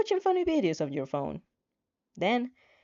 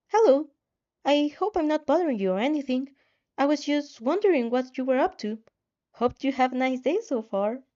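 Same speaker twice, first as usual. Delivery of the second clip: higher, brighter voice for Izuku; Izuku's message; 5 semitones higher than usual. Acted. Izuku's text read aloud.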